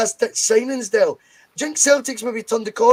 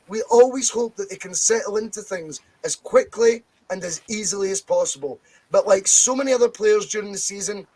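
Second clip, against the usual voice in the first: deliberate read-out of an official statement. Real, not acted. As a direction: read the quote aloud, measured and emphatic. Resumes reading manager's statement.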